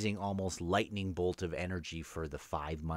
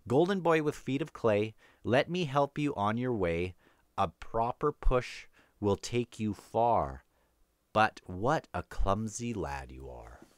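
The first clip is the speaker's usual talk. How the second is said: reading a verse; 3 semitones higher than usual. A narrator's reading. Rereading the novel's rhyme for the book club, lightly sing-song.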